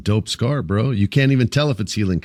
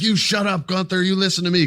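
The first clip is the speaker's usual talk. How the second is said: high, whiny mock manager voice; mocking Adam Pearce; 10 semitones higher than usual. Host mocks the weak manager yelling at Gunther, high whiny voice. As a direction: squeak it out like a powerless boss. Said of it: "and he's like".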